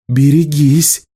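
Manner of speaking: high snapped warning; snapping. A narrator's reading. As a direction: bite back a threat. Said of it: "огрызнулась Элиса". (огрызаясь, угрожающе)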